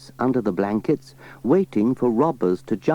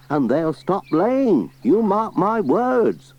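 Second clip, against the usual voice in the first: grumbling farmer; 10 semitones higher, 5 dB louder than usual. Acted. Alf warning.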